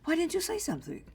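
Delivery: high, sing-song fake innocence; oh-of-course with a mocking lilt; mock sarcastic agreement. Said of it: "He says".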